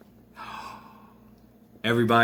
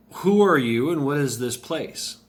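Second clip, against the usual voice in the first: louder, higher opening on WHO; bold, raised-voice demand; demanding question; 5 semitones higher, 5 dB louder than usual. Acted. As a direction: challenge a stranger loudly, easing off at the end. Bruce demands answers of the goddess.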